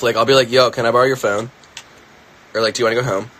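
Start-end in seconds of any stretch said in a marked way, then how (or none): 0.5-1.5 Philadelphia accent. Shown as a demonstration. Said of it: "I'll catch myself". 2.7-3.3 Philadelphia accent. Shown as a demonstration. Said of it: "I'll catch myself".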